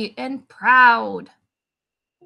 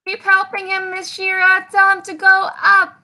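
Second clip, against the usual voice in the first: excited encouragement; 6 semitones higher, 4 dB louder than usual. Real, not acted. Cheering on co-host with kids.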